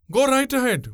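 high, singing-out cheer; jovial. A narrator's reading. Boatwoman daring him to jump, jovial. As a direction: toss it back merrily, pitch way up. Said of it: "was Pungurili's jovial answer".

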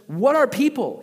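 a desperate plea flung at heaven; anguished outcry. Retold or imitated. Pastor voicing Job crying out to God, high and loud.

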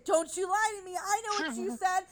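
play-scold him with a teary, overblown wail; mock-outraged whine, near a playful cry; mock accusing. Repeated playful accusation, louder.

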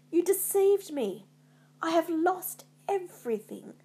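high, loud cry of betrayal; howling. A narrator's reading. Macbeth to the witches who tricked him, howling. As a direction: cry out bitterly, pitched well up. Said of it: "howled Macbeth".

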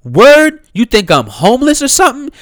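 high indignant "Word?"; incredulous disbelief. Retold or imitated. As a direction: throw the questions back in disbelief. Voicing the Yale student's disbelief.

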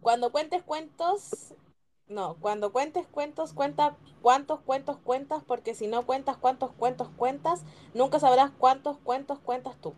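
slow, careful tongue twister; slow, lacking rhythm. Real, not acted. Player retries after stumbling, slow and careful. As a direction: pick through it slowly, phrase by phrase. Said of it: "Igual te faltó ritmo".

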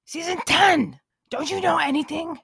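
loud scoffing zombie; indignant zombie outburst. Acted. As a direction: bark it like they're clueless.

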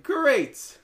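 loud, high mock cheer; mock excited. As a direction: imitate an over-the-top yes. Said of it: "And I was like".

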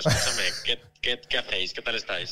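tinny speakerphone voice; over the phone. Real, not acted. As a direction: sound like a voice on speakerphone. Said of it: "tiene entonación como de radio".

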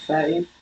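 soft "thirty" starting with an f sound; th turned to f. Shown as a demonstration. Answering a friend's version, "thirty" with an f. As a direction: say "thirty" as firty, f replacing th. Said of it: "My T H is sometimes turned to F".

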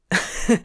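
a short, weak little giggle. A narrator's reading. Crowley giggling at Aziraphale's story, weak giggle. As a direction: giggle weakly despite yourself. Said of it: "Crowley let out a weak giggle".

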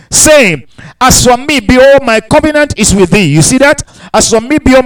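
lifted pulpit reading voice; scripture reading. Acted. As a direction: proclaim the verses to the congregation. Preacher reads Genesis verses.

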